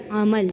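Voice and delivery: عمل with both letters open, a-ma-l; teacher modelling عمل with zabar on ain and meem; correct pronunciation. Shown as a demonstration. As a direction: say عمل as three syllables, each with zabar. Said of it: "عین زبر میم، لام زبر مل".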